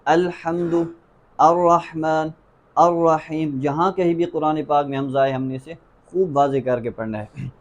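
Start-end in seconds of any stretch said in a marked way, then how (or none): 0.1-3.6 "الحمد، الرحمن، الرحیم" each with a firm glottal onset; careful model words with pauses between; clear hamza. Shown as a demonstration. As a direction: sound every opening a distinctly in "الحمد، الرحمن، الرحیم". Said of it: "بالکل واضح طور پر ادا کرنا ہے".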